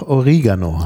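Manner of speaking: "Oregano" with an Italian i, stressed there; Italian pronunciation. Shown as a demonstration. Host contrasts German with Italian, "Oregano" said o-RI-ga-no. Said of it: "während es italienisch tatsächlich auch".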